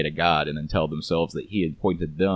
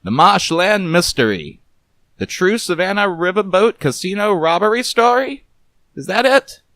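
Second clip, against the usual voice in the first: loud, higher hard-boiled detective; Garbo, teasing; 14 semitones higher, 7 dB louder than usual. Acted. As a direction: needle her with gruff charm. Voices Garbo recalling title.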